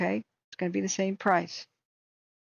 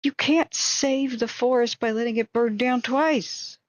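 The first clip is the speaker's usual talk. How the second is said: angry; 4 semitones higher, 5 dB louder than usual. Real, not acted. Angry rant about court ruling.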